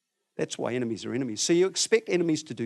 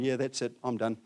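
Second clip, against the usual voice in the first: fed-up muttering; 3 semitones lower, 5 dB quieter than usual. Retold or imitated. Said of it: "would have gone".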